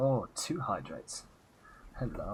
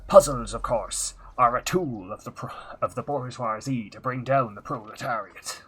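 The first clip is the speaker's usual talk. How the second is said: put-on Transylvanian pirate accent. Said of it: "this accent".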